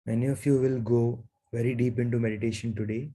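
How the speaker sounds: unhurried meditation guidance with long pauses; guided meditation. Real, not acted. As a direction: guide them gently into stillness, leaving long silences.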